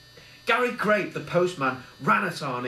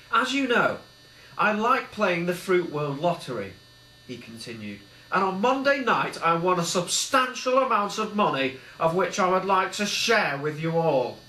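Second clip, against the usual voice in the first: high, loud and proud; thrilled speech to friends; excited announcement; 5 semitones higher, 4 dB louder than usual. A narrator's reading. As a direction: announce the big win with glee. Billy announces lottery win.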